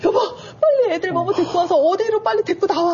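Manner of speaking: high, hurried retold plea to husband; urgent call. Wife calls husband to bring the kids out, urgent.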